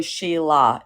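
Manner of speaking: "Sheila" slowly, ending in an open "ah" as in umbrella; open Aussie ending. Shown as a demonstration. Australian correcting a comic, open "ah" ending on "Sheila". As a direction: end "Sheila" on ah, no er sound. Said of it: "it's like, uh, like umbrella".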